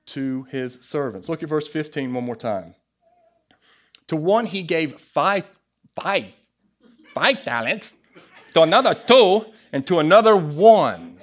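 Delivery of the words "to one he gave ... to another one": put-on accidental Asian accent, louder on the last phrases; punchy Asian-accented scripture reading. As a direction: slip into a comic Asian accent. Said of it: "That was my Asian side coming out".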